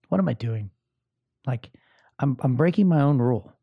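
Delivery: whispered to himself in realization. Real, not acted. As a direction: breathe it out as a private admission. Realizing his mistake, to himself.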